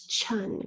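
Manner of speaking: "chun" said with CH, not SH; chun sound. Shown as a demonstration. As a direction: show "chun" as the odd ending. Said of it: "we have the qu".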